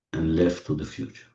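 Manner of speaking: soft, low, fading almost to nothing; soothing hush. Real, not acted. Guide leads closed eyes right and left to relax, soothing hush. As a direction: lull them with hushed, spaced-out words.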